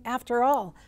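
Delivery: loud, offended protest; indignant. Retold or imitated. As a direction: puff up with wounded pride. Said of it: "Perhaps he is thinking".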